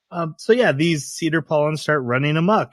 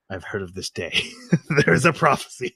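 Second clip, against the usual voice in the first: ominous prophet voice. Retold or imitated. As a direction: intone it like a doomsday prophet. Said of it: "he's like".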